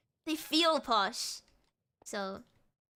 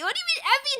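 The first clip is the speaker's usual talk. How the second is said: much higher, louder outraged question; indignant disbelief; 5 dB louder, faster than usual. Real, not acted. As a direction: sound scandalised by the word. Reacting to chat calling her heavy.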